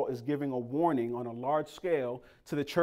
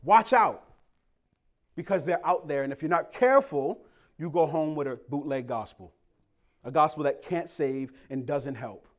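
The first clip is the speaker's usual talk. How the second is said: preaching Paul. Retold or imitated. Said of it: "He's saying".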